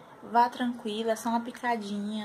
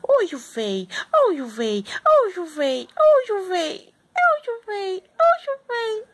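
cooing that climbs higher and louder; mother cooing louder and higher; 11 semitones higher, 9 dB louder than usual. Real, not acted. Cooing at baby, rising.

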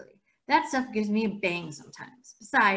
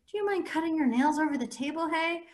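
irritated; 8 semitones higher than usual. Acted. Irritated request to Ackley.

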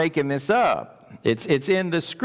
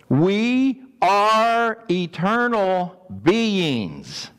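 slow emphatic preaching; 3 semitones higher, much slower than usual. Acted.

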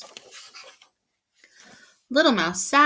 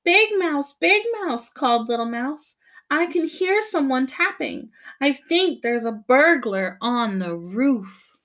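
much higher, louder scared call; frightened calling; 6 semitones higher, 4 dB louder than usual. Acted. Little mouse scared of a burglar on the roof, high frightened call.

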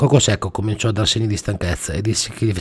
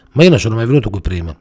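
protest; 6 dB louder, faster than usual. Acted. Gubbioli protests.

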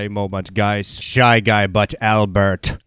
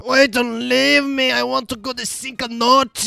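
silly high voice; 11 semitones higher than usual. Pretend. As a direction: beg in a squeaky cartoon voice.

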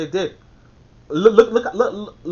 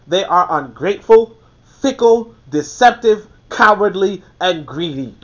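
emphatic repeat; 4 dB louder than usual. Acted. Repeating the list to drive it home, louder. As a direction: hammer home every item.

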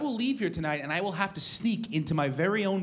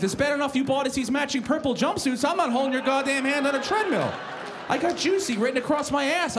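exasperated; 6 semitones higher than usual. Retold or imitated. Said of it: "I'm like".

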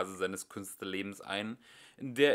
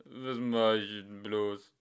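sad lament; 3 dB louder, slower than usual. Acted. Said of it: "Traurig blickte er in die Runde".

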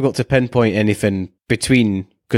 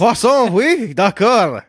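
higher, slow hammy French; fake French accent; 10 semitones higher, much slower than usual. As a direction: drawl it like a cartoon Frenchman. Mock French word game.

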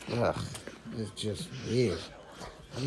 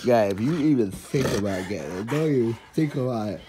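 stern warning; 6 dB louder, faster than usual. Real, not acted. Warning the dog.

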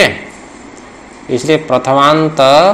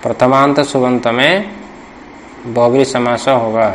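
dictation. Shown as a demonstration. Teacher dictates the rule for students to write down. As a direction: dictate it so they can write each chunk. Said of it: "लिख लो".

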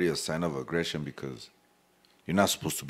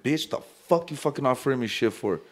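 higher-pitched indignant comeback; mock-offended challenge, pitch raised; acted hostile reply; 6 semitones higher than usual. Inmate refusing an offered cookie, acted hostile.

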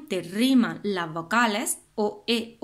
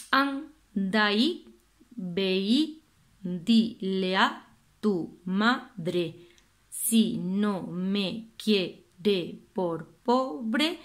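lento, verso recitado sílaba a sílaba; recitando verso; much slower than usual. Shown as a demonstration. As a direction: lee el verso despacio marcando sílabas. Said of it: "Y ahora otro poema". (profesora lee el poema despacio)

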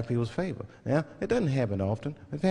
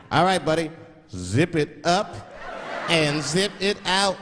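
slow, drawn-out fake slang; slow, cool made-up slang sign-off; slower than usual. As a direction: stretch the nonsense phrase out slowly. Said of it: "make up shit that's not even slang".

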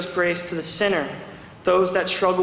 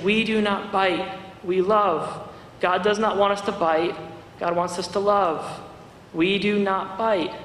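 gentle teaching. Retold or imitated. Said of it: "she got down on her knees".

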